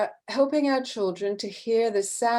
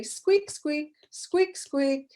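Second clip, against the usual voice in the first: a bit higher, light mouse squeaks; 5 semitones higher, slower than usual. Retold or imitated. Teacher voices a mouse for the class, lightly higher. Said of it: "a mouse will say".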